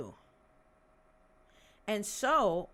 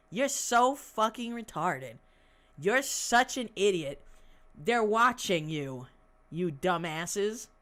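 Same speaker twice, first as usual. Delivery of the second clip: loud taunting; 5 dB louder, slower than usual. Real, not acted. Taunting the extremists.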